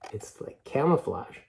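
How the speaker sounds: whispered aside over the picture. Real, not acted. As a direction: breathe it like a little secret. Aside while showing the picture.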